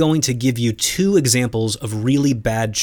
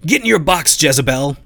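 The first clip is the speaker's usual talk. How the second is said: raised, higher-pitched outburst quoting a boss; sudden mock-furious order, pitched up; mock scream; 4 semitones higher, 4 dB louder than usual. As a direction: imitate a startling scream, only partly let loose. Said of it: "the C E O screams".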